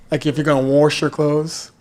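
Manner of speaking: "wash" with an r, as "warsh"; family pronunciation. Shown as a demonstration. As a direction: slip an r into "wash". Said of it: "in my family, we say".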